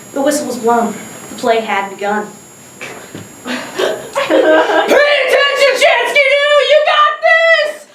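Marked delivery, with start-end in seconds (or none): 3.5-7.9 dad yelling. Retold or imitated. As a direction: call out like a cheering dad. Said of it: "I hear my dad yell from the car".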